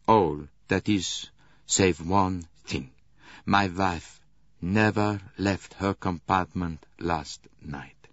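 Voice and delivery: slow, weighted vow, each word set down; earnest. Acted. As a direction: swear it so he must believe. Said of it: "spoke with an earnestness".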